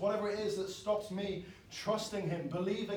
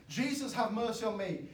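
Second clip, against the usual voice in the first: crying out; 5 semitones higher than usual. Retold or imitated. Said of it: "And he kept crying".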